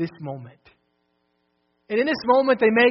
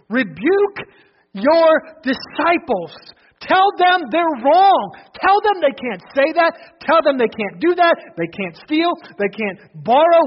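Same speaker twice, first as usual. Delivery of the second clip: indignant Pharisees; 3 semitones higher, 4 dB louder than usual. Acted. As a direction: scold like offended religious leaders. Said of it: "They say".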